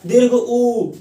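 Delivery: दीर्घ उ said with a long held ऊ; drawn-out vowel. Shown as a demonstration. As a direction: stretch the उ to show its length. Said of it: "ज्यादा समय लगता है". (उ को खींचकर लंबा बोलें)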